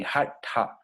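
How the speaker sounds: "hatha" in two parts, tongue curled back on the t; retroflex T. Shown as a demonstration. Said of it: "La pronunciación correcta".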